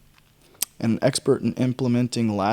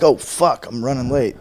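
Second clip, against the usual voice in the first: panicked; 5 dB louder than usual. Retold or imitated. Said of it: "I'm like".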